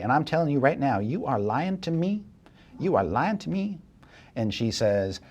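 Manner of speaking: GM's scheming woman blackmails the liar, pushy then hushed; sly blackmailer. Acted.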